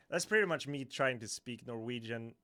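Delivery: ordinary talk, nothing marked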